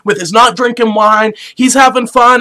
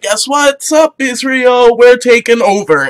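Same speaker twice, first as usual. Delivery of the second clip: lightly acted cocky challenge; cocky invaders; 2 semitones higher than usual. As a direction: announce a takeover with playful swagger. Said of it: "they're like".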